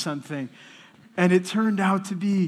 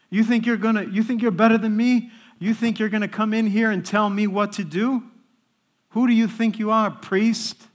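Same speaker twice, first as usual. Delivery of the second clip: higher, louder confrontational challenge; retold angry yelling; 5 semitones higher, 4 dB louder than usual. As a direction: act out an inmate taunting a priest. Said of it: "as he's yelling at me".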